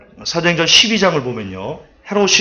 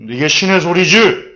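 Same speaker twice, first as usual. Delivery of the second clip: smug king; 4 dB louder, slower than usual. Retold or imitated. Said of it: "한껏 기분이 취해가지고".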